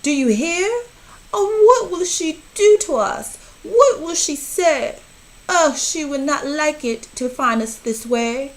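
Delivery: high, loud, frantic warning; the fish in full-blown panic; panicky fish. A narrator's reading. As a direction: fret aloud as mother nears. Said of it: "Our fish shook with fear".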